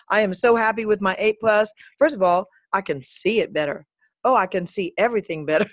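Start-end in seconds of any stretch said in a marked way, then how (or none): 4.2-5.7 light, quick Southern twang; Southern accent. Pretend. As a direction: slip into a mild Southern accent. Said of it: "I don't know why I have this Southern accent".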